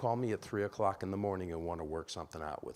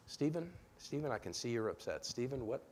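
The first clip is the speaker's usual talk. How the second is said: calm; 3 semitones higher than usual. Shown as a demonstration. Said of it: "Use the person's name".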